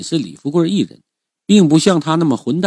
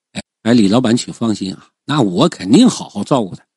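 lightly voiced obsequious underling; fawning; 5 semitones lower than usual. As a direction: reassure the rich man eagerly to please him. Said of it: "点头哈腰献媚啊". (略带谄媚地连声应承)

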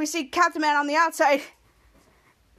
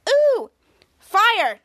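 much higher and louder, thrilled at the fire; excited; 6 semitones higher, 6 dB louder than usual. Retold or imitated. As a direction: gasp with delight at the flames. Kelsey sees the fire.

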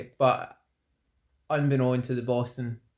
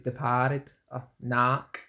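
Boston-style A in "departed" and "knack"; imitated Boston accent; much slower than usual. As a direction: say the A R words like a Bostonian. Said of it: "It's like the A R words".

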